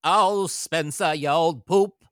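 Katharine Hepburn style transatlantic lilt; loud, slow transatlantic drawl; transatlantic accent. Retold or imitated. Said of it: "not leave it going".

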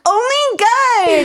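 very high, drawn-out squeal; hammed-up tearful delight; overjoyed. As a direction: gush it in mock ecstasy. Kit thrilled about double date.

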